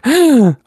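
loud, high gasp of alarm; loud shocked gasp. Retold or imitated. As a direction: gasp like a startled cat again. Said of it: "Luna's like".

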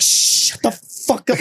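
slow whispered hush; harsh whisper. Retold or imitated. Hushing the girlfriend so the roommate won't hear, slow whisper. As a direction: whisper it urgently, slowly.

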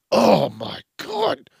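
high, loud, drawn-out swoon; acted delight. Reacting to moist cake, hammed-up delight. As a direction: gush slowly over the food.

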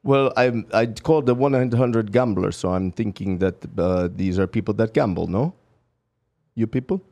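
low-pitched put-on Russian accent for a prank call; fake Russian accent. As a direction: play a pleading Russian caller with a thick accent. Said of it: "What part of Russia was that accent".

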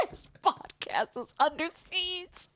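high, soft, drawn-out parody delivery; slow, hushed send-up of the line; mock action-movie line. Echoes line as Seagal joke.

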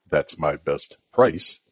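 a firm, low, slow last offer. Shown as a demonstration. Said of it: "A deeper tone on".

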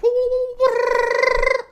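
very high playful woos. Pretend. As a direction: squeal it up high, light as air. Air energy, free and light.

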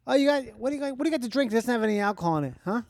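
New Yorker ordering at the counter; playful New York accent. Pretend.

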